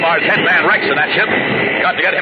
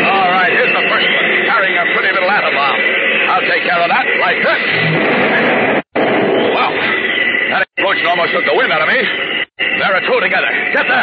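heroic battle shouts. Acted. Superman fighting the planes.

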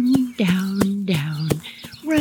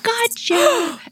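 high triumphant gotcha; excited shout. Retold or imitated. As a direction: pounce on the word. Sharon finds them.

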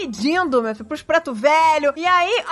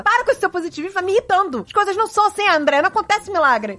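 mildly annoyed retelling, pitched up; a touch of retold exasperation; imitated irritation; 3 semitones higher than usual. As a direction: lightly mimic a fed-up partner's scolding. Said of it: "E ele fica com raiva disso. Ele fala".

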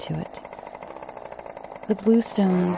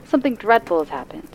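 agitated woman; 4 semitones higher, faster than usual. Acted. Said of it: "in an agitated voice".

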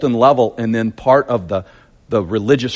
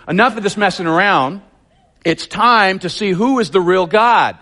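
higher, bolder prophet challenge; J P version; 5 semitones higher than usual. Shown as a demonstration. Preacher voicing Elijah confronting the king, higher and bold. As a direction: throw down the gauntlet to the king. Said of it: "I'm giving you the J P version here".

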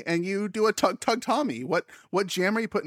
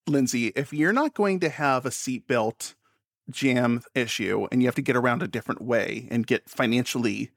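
lightly mocking her careful over-enunciation; impression of Lindsay; 3 semitones lower than usual. Friend teasing Lindsay by imitating her careful enunciation. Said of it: "I was doing an impression of you".

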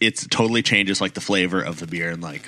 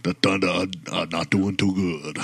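hammed-up Southern accent, ending in a laugh. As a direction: drag it out in a mock Southern accent. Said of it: "in a Southern accent".

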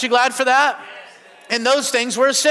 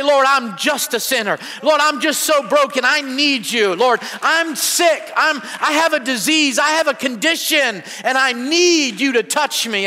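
higher, pleading confession to the Lord; humble sinner praying; 3 semitones higher than usual. Retold or imitated. Preacher voicing a sinner crying out to God, pleading. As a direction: beg the Lord like a broken sinner. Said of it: "God loves it when you say".

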